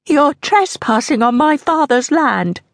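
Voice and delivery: put-on high, defiant young woman; strained defiance. A narrator's reading. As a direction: challenge the intruders. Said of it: "Her voice didn't sound like hers".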